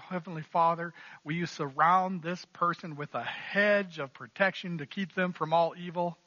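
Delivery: put-on light southern accent on a prayer; mock-pious prayer in a mild southern accent. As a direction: pray it with a touch of southern twang. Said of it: "say that with a southern accent".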